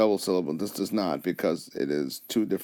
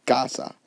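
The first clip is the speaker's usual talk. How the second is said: "casa" stressed on the first A; 3 semitones higher than usual. Shown as a demonstration. Teacher showing natural stress, "casa" accented on its first syllable. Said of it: "Your voice naturally goes up on the A".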